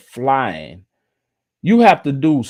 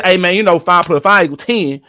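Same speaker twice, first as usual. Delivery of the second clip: loose, casual slang, a bit louder; casual street talk; 4 dB louder than usual. Shown as a demonstration. Contrasting casual talk for viewers, loose and a bit louder. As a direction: slide into relaxed everyday talk, "Hey, man". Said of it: "But if I said just like this".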